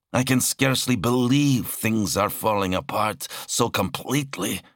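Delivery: high-pitched, exasperated warrior; exasperated warrior Zal. Acted. Zal answers his brother's warning over the link, exasperated.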